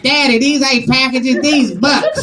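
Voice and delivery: lightly voiced child; a hint of a complaining kid; child talking back. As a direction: protest like a kid to Daddy. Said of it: "Children be like".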